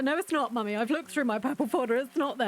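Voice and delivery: lightly voiced stubborn little girl; insistent daughter. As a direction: play the kid who swears she's looked. Daughter insisting it's not there.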